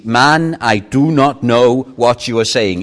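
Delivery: emphatic denial with a forceful first word; firm denial. Acted. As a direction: deny it firmly, as read-out dialogue. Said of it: "It's even more, uh, firm".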